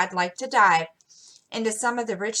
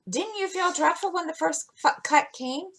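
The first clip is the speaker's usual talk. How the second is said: high, shivery dread; a touch of a timid older sister; with a shiver; 9 semitones higher than usual. A narrator's reading. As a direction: shudder at the thought of the first cut. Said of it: "with a shiver".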